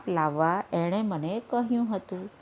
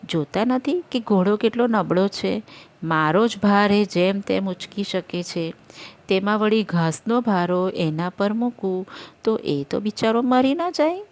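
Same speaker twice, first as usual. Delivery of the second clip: foolish rider; 3 semitones higher, 6 dB louder than usual. Acted. Rider defends his odd logic.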